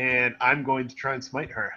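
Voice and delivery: ordinary talk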